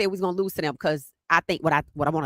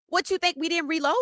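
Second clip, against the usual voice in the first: incredulous; 9 semitones higher than usual. Retold or imitated. Mocking rivals' doubt.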